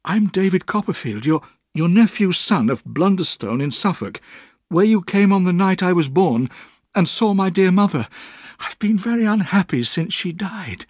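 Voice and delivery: desperate pleading. A narrator's reading. Exhausted boy begs his aunt for help, desperately. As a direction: let it tumble out, near breaking.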